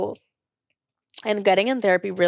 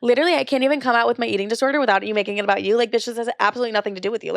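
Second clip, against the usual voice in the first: exasperated fast retort; 3 semitones higher, faster than usual. Retold or imitated. Retorted quarrel with her mom.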